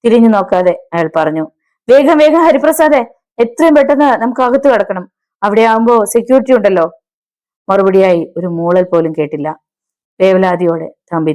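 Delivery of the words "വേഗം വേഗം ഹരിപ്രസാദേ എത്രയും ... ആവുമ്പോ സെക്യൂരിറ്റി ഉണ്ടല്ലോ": high, urgent voice easing slightly; panicked urging. A narrator's reading. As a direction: hurry your companion inside in a panic. Fleeing killer, urging companion to hurry.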